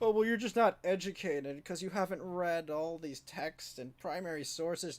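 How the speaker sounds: condescending, dismissive know-it-all professor voice, talking down. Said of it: "they'll just be like".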